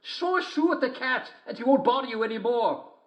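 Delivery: very high sing-song falsetto as the wolf; a wolf pretending to be sweet, sung up high; wolf in disguise. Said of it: "But the wolf said".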